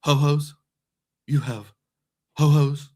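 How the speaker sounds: hammed-up British butler marvelling at snacks; Mister Belvedere. Vlogger imitates Mister Belvedere tempted by ho-hos in a loud British accent. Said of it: "And in his British accent".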